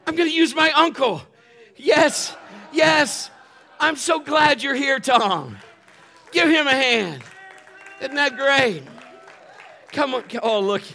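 high, loud shouts to the crowd; real hyped-up shouting; excited announcing. Real, not acted. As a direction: whip up applause for the volunteer. Calls volunteer up, rallies applause.

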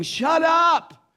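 loud, high-pitched shout at a screamer; irritated yell. Retold or imitated. Passengers yelling at the screaming man, irritated shout. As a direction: yell it across the cabin.

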